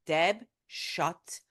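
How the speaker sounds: slow, stern mock reprimand; uncharacteristically curt husband. Husband silencing his wife, uncharacteristically stern. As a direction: lightly imitate a husband slowly laying down the law. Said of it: "And he doesn't talk like that".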